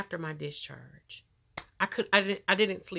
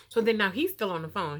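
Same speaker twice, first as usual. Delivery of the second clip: whisper; 3 dB louder than usual. Real, not acted. Telling hospital story, sudden hush.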